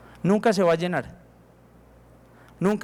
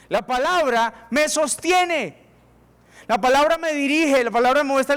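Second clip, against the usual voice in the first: drawn out very slowly, higher; slow emphasis; 7 semitones higher than usual. Real, not acted. Preacher stressing that the Word sustains, very slow. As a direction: lean on every word slowly.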